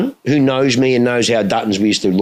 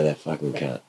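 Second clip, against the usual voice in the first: laughing curse; 7 semitones lower, 10 dB quieter than usual. Retold or imitated. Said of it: "I go".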